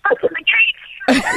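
high, drawn-out mock yell; slow, high call-out, imitating someone shouting; imitated shout. Guard shouting at the other cars, imitated drawn-out yell. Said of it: "he was shouting at the other cars".

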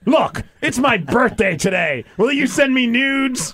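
slow, plain, deadpan request; matter of fact. Retold or imitated. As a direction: read it dead matter-of-fact. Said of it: "Just very matter of fact".

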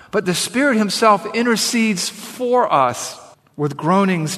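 emphatic Bible reading, settling at the close; scripture reading. Acted. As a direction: proclaim the verse deliberately. Reads scripture aloud to congregation.

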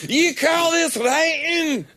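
hammed-up outraged foreign accent, high and slow; mock European editor. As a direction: play the scornful European editor, overdone. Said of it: "He said".

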